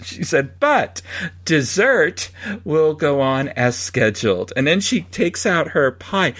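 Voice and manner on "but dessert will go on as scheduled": mock formal announcement, slightly slow; imitating announcer voice. Wife announces dessert is still on, lightly voiced announcer. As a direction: deliver the good news like a park PA. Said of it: "she makes her announcement about making lunch".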